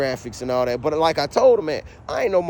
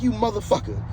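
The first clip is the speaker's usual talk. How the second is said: mad; 5 semitones higher than usual. Retold or imitated. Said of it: "I was mad as a bitch".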